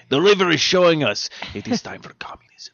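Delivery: conspiratorial mock whisper. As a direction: hush it like a secret prophecy. Mock Russian revelation.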